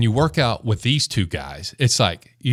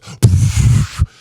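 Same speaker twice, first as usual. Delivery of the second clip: blowing off dust; 7 dB louder than usual. Retold or imitated. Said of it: "blows on him".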